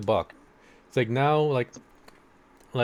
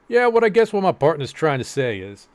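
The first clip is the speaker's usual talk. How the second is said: badly faked Southern accent, higher and louder; a hammed-up attempt at a Southern US accent; 6 semitones higher, 8 dB louder than usual. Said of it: "I can't do a Southern accent".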